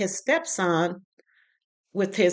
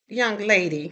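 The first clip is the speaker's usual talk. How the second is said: imitating the mother; 2 semitones higher, slower than usual. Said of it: "and she goes".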